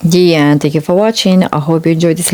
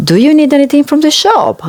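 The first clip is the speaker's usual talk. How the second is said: granny voice; 10 semitones higher, faster than usual. Acted.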